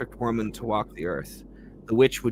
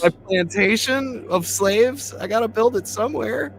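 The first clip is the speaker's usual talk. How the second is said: mocking incredulous; 10 semitones higher, 4 dB louder than usual. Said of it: "mocking the slave owner".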